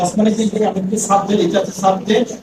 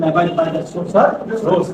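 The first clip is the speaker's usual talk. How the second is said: careful demonstration pace; slow model reading; 3 semitones lower, much slower than usual. Shown as a demonstration. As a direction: lay each word down for the class. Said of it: "teacher models the correct phrase".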